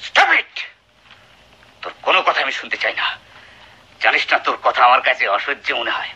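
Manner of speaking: shouted, then fast and contemptuous; furious husband ordering wife to leave; angry shout. Acted. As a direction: throw her out in fury.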